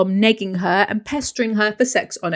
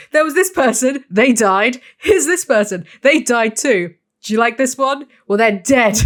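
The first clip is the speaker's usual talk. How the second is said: mock film summary; 2 semitones higher, 4 dB louder than usual. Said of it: "three hours of".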